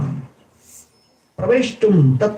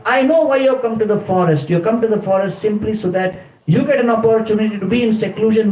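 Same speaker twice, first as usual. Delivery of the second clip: higher and fast, a heated charge; bitter accusation; 6 semitones higher, faster than usual. Retold or imitated. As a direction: fling the accusation at him. Sita accuses Lakshman.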